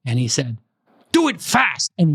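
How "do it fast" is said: put-on Korean accent. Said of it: "I can do Korean".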